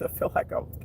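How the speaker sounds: normal talking voice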